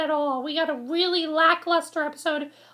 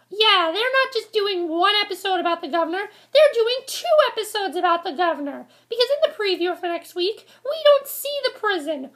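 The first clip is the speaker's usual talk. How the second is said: normal talking voice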